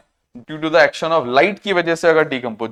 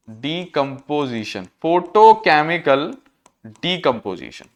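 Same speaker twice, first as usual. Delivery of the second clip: slow dictation; 3 semitones lower, slower than usual. Real, not acted. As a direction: say "decomposition" low and slow, each part separate. Spelling out the term while writing.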